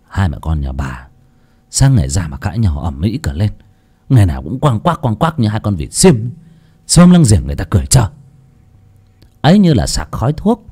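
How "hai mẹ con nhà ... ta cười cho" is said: much lower, grumbling father voice; gruff father. Acted. Father Dũng grumbling at mother and daughter quarrelling, gruff. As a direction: grumble flatly like a tired old dad. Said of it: "ông thùng thẳng".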